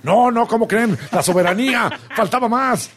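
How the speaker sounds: high-pitched, hammed-up outrage; mock indignation. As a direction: protest as if scandalized, imitating partisan defenders. Mimics indignant defenders of Rocha Moya.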